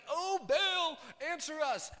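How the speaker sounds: loud, high cry to a god; shouting plea. A narrator's reading. Prophets calling on Baal at the altar, shouting. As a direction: call out hard as if reading a desperate chant aloud.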